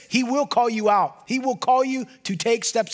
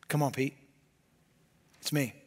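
soft invitation; 9 semitones lower, 9 dB quieter than usual. Acted. Jesus gently calling Peter onto the water, soft and inviting. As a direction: lower and softer, gentle call.

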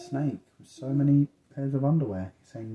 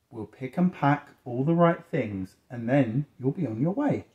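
measured, lilting picture-book narration; reading to children; 3 semitones higher, 6 dB louder than usual. A narrator's reading. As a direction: read clearly to a young listener.

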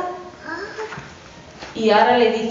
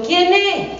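put-on little goat kid; 8 semitones higher than usual. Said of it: "le dice a los cabritos".

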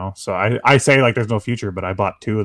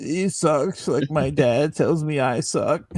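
deep gravelly voice; 5 semitones higher, slower than usual. Acted. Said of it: "such an aggressive voice".

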